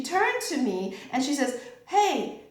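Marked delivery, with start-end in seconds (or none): 1.9-2.4 a higher, fast, lightly upset complaint; mock the friend's upset, quick and high. Upset friend demanding why you missed lunch, lightly mocked. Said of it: "she was really upset with me".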